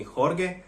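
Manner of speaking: "Jorge" said HOR-geh; hard-G misreading. Retold or imitated. Foreigner tired of what they call him, hard-G misreading. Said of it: "they call me Jorge".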